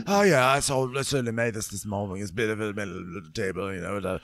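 sass it back, hammed up; imitating Haley's cheeky table boast; mock cheeky stew.

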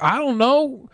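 hammed-up innocent answer; playing the guest. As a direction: spell it out in measured, rising phrases. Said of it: "And be like".

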